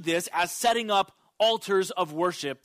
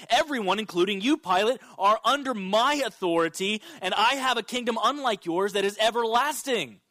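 raised, insistent preacher's proclamation; emphatic declaration; 3 semitones higher than usual. Retold or imitated. Preacher voicing Jesus declaring his kingdom to Pilate, emphatic declaration. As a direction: build each claim with firm authority.

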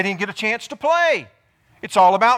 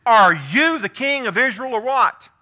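scornful taunt; 3 semitones higher, 4 dB louder than usual. Retold or imitated. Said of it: "Look at what she says".

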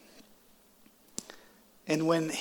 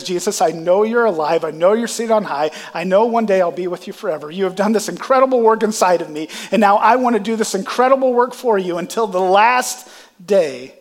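louder, higher, faster as the passion climbs; building preaching fervor; 4 semitones higher, 8 dB louder than usual. Real, not acted. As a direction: preach it out, rising to a passionate peak. Pastor's testimony swells to preaching.

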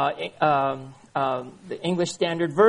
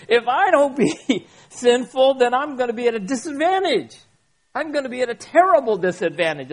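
laughing mock excuse; 7 semitones higher, 6 dB louder than usual. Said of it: "Another one is".

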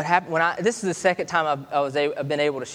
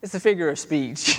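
tender apology. Retold or imitated. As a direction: reassure a small child gently. Father apologizes to daughter.

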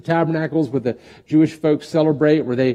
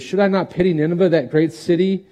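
God pleading; 5 semitones higher than usual. Acted. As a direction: let God plead for the city. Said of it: "He says".

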